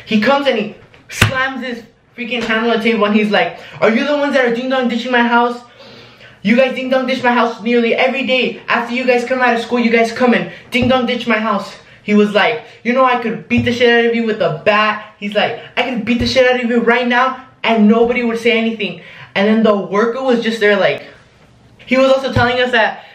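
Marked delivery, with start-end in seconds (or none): 3.8-11.7 raised pitch, quick mock-angry confrontation; retold angry accusation. Angry homeowner accusing kids of ding dong ditching, retold irate voice. 12.8-15.1 higher-pitched imitated threat; mock an irate man threatening; retold angry threat. Angry homeowner threatening the kids, retold irate voice. 15.8-19.0 higher, imitated menacing rant; retold angry threat. Angry homeowner threatening kids in pizza place, retold irate voice.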